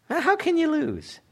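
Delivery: high-pitched rhetorical challenge; high rhetorical question. Real, not acted.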